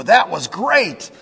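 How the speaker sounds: high, slow, drawn-out pretend gushing; mock enthusiasm. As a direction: gush like an impressed churchgoer, stretching the words. Acts out impressed churchgoer leaving.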